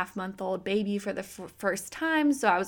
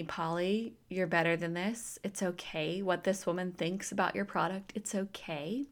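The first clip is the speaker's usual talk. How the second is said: soft, quiet, comforting voice; gentle reassurance; 5 dB quieter than usual. Acted. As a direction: ease her gently, like calming a friend. God speaking to her comfort.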